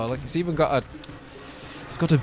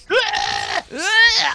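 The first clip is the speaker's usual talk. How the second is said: high-pitched sudden scream; silly scream. Pretend. Player screams right after resuming the mission, silly high scream. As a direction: let out a pointless scream. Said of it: "Why are we screaming?".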